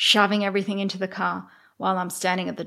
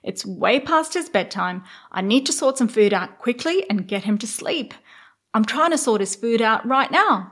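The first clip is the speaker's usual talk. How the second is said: retold snapping at guests; 4 semitones higher, 4 dB louder than usual. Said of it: "I basically lost my shit and said".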